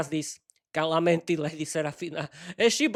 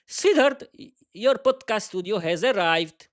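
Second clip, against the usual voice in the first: calling out; 3 semitones higher than usual. Acted. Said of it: "he shouted to Vera".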